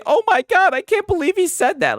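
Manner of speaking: lightly hammed-up pearl-clutching; mock outraged gasp. Mocking virtue signalers, a hammed-up shocked gasp. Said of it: "I'm not gonna cry and say".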